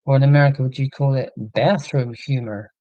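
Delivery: lightly put-on, bad American accent; a quick, half-hearted American accent. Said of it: "That was a really bad American accent".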